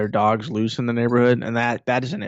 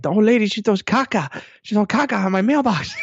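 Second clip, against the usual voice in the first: high-pitched imitated Dominican accent; thick Dominican accent; 10 semitones higher than usual. Neighbor complains about the old lady, imitated thick Dominican accent. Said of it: "in her, you know, thick, Dominican accent".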